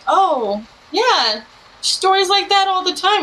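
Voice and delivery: a hint of breezy grandparent; lightly voiced grandparent. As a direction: shrug it off like grandma. Grandparents brushing it off.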